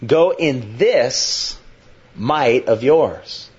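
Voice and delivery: drawn out, each word slowly weighed; slow deliberate reading. Shown as a demonstration. Preacher slowly reading the command to Gideon. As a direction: read it slowly, letting every word land. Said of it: "Up, go".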